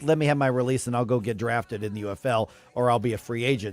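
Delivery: ordinary delivery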